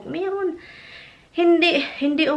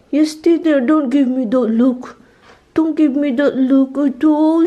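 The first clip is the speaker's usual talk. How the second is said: firm scolding; 3 semitones higher, 6 dB louder than usual. Real, not acted. Scolding pleading dog.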